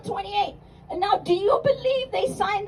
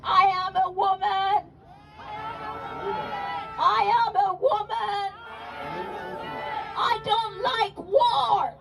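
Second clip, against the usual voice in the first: impassioned proclamation; 4 dB quieter than usual. Acted. Voices Taitu with impassioned cry.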